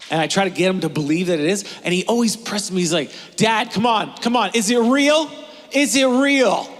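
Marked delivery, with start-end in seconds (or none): 3.4-6.7 a light imitation of a pushy kid, a bit louder; pleading kid. Son pressing his dad, mildly imitated. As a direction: press Dad like a kid who wants the truth.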